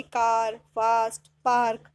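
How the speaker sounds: "कार, फास्ट, पार्क" each with open aa; long-aa sound model. Shown as a demonstration. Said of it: "इसमें कैसे sound आ रही है ए की".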